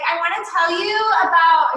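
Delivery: mock the stiff on-camera voice; a lightly put-on camera-ready voice; fake video voice. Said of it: "you kinda put on a fake voice".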